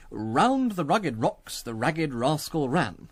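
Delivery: slow, careful test reading; deliberate elocution from a card. Acted. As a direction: take the tongue twister very slowly. Candidate reading test card out loud.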